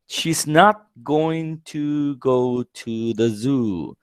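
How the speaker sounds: She's not going to go to the zoo, slow with not leaned on; teacher spelling out each word, hitting not; slow stress on not. Shown as a demonstration. Teacher models the negative slowly, stressing not. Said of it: "place not before the going to".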